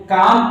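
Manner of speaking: "काम" with no L sound; silent L. Shown as a demonstration. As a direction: say "काम", long vowel straight into the M. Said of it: "यल हमेशा silent रहता है".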